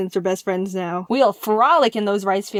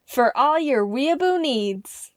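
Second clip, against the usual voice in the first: mock ad tagline; 3 semitones higher, slower than usual. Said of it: "What about for the Japanese exclusives?".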